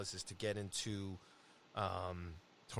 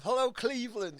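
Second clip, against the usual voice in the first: mock arena rock greeting, raised; mockumentary rock star; 12 semitones higher, 7 dB louder than usual. Arriving at an empty parking lot, hammed-up rock star greeting. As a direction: call it out like a rocker to a stadium crowd. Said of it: "like the scene in that rock mockumentary".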